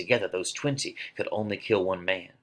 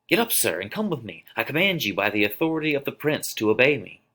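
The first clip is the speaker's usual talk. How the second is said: higher, stern order; commanding watchman; 5 semitones higher, 3 dB louder than usual. Acted. Watchman orders the fallen man up, stern and higher.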